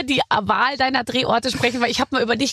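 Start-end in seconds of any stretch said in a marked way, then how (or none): none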